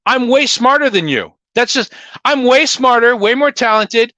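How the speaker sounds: loud cocky brag; smug boast. Real, not acted. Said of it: "I'm sorry".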